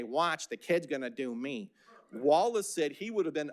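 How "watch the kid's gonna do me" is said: lightly put-on manager voice; Dick Rawls. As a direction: mildly imitate a boss showing off his impressionist. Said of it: "bring his family and friends in and say".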